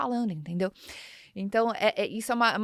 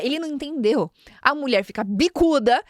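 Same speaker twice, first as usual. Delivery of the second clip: usual speaking voice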